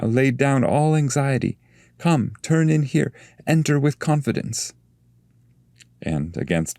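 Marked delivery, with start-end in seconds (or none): 0.0-1.6 higher soothing guide, weight on all; Virgil's voice. Acted. Virgil calms Dante before the fire, higher soothing tone. 2.0-4.7 higher, gentle guide coaxing his pupil; a patient master urging trust; Virgil's voice. Acted. Virgil coaxes frightened Dante toward the fire, higher gentle guide.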